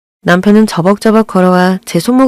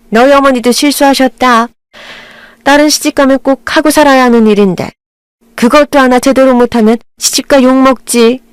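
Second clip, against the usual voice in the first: a hint of a scolding mother-in-law, pitched higher; 4 semitones higher than usual. Mother-in-law chiding her new daughter-in-law, lightly voiced scolding. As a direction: lecture her like a fussy older woman.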